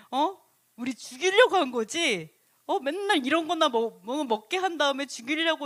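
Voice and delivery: acted indignant griping; grumbling accusation. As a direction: pile up grievances with pestering little "huh?"s. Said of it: "원망을 해요".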